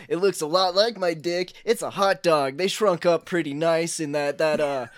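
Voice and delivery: a lightly voiced loud party bro, hyped and cocky; cocky bro bragging about his dish; dude-bro chef.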